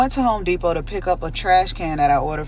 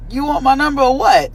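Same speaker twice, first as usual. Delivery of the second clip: high, loud, laughing retort; loud laughing "You want my number or what?"; laughing challenge; 11 semitones higher, 7 dB louder than usual. Retold or imitated. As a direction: laugh it out at him. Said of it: "And I'm just like".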